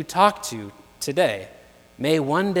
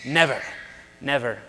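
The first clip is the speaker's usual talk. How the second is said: lightly imitated British butler; low-key British accent, each word set apart; a touch of British butler accent; 3 semitones lower than usual. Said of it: "in a great British accent".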